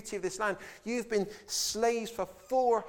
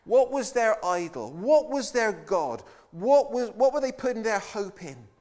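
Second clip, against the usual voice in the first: emphatic questions; 3 semitones higher, 6 dB louder than usual. Real, not acted. Preacher pressing questions.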